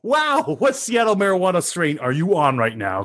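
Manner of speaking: high-pitched, amazed disbelief; astonished sports-debate reaction; incredulous. Real, not acted. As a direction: exclaim as if he has lost his mind. Mock outrage at friend's ranking.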